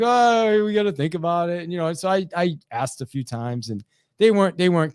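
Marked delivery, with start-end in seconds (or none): 0.0-1.6 mock reluctant stalling. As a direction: imitate clients hedging, pitched up. Clients stalling after the sales call.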